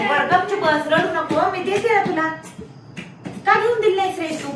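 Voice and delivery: high, loud motherly telling-off; loud scolding. Real, not acted. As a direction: raise your voice to hush one and blame the other. Mother hushes child, scolds elder son. (चढ्या आवाजात रागावणे)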